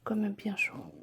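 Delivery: soft whisper; whispering over a crib. Real, not acted. Whispering near sleeping baby.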